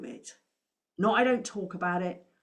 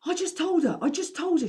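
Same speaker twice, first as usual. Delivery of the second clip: higher, louder imitation of Paula's accent; imitating Paula's accent; 11 semitones higher, 5 dB louder than usual. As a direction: mimic Paula's accent, playfully. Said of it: "forgive the accent".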